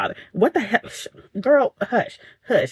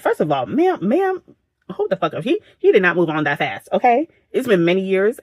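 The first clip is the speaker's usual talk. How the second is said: sassy retort; 3 semitones higher than usual. Retold or imitated. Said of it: "I was like".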